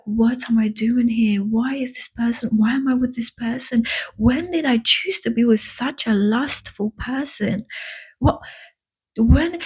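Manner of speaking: suddenly waking up to your own life, ask what am I doing here; retold dismay at being with the wrong person; shocked realisation.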